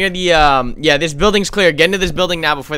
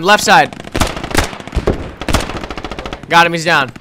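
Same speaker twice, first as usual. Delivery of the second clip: shouting. Real, not acted. Combat callout.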